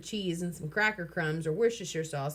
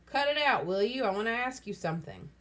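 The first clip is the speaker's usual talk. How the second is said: hearty quavering voice; 3 semitones higher than usual. Acted. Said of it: "in a hearty, quavering voice".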